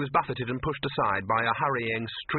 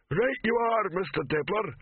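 lightly voiced troll henchman; obey as a rumbling troll; 9 semitones higher than usual. A narrator's reading. Troll takes Dibbler's order to evict Silverfish, rumbling. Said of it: "rumbled the Troll".

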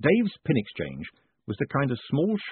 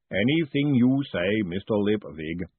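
golem voice; 2 semitones lower, slower than usual. Acted. Golem replies to Moist.

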